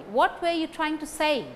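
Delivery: "what", "trying" and "say" stressed. Shown as a demonstration. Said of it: "These words carry stress".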